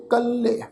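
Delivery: ਕੱਲੇ with doubled l and final e; pronunciation demo. Shown as a demonstration. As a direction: show ਕੱਲੇ ending in a clear "-e". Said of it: "ਪਾਠ ਉਚਾਰਨ ਕਰਾਂਗੇ".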